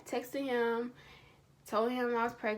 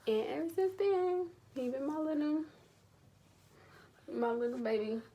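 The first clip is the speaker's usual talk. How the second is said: doting; 6 semitones higher than usual. Real, not acted. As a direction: gush tenderly in a lifted little voice. Gushing about her baby son.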